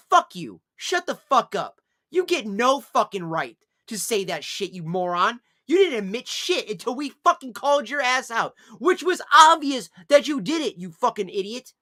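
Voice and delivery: luid, boos uitschelden; woedend uitvaren. Real, not acted. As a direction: blaf hem woedend toe. Scheldt de betrapte streamer uit.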